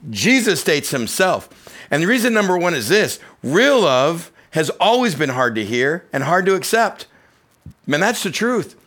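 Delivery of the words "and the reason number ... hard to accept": forceful preaching. Acted. Sermon point stated forcefully.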